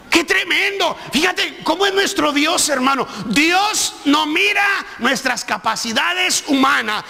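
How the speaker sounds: fervent sermon delivery; rising pastor's exhortation; preaching. Real, not acted. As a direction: preach it to the congregation with conviction. Preaching to the congregation.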